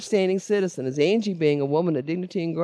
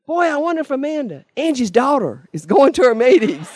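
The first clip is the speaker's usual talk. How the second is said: sly teasing loophole; 6 semitones higher, 7 dB louder than usual. Retold or imitated. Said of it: "Debbie'd laugh".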